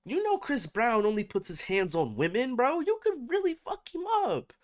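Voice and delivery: high, loud hype-man urging; frat bro. Real, not acted. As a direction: egg him on like a hype man. Hyping Kevin to fight back.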